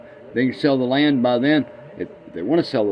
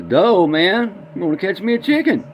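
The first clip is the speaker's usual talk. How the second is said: put-on dopey boy voice; 8 semitones higher, 4 dB louder than usual. Dumb boy voiced in joke.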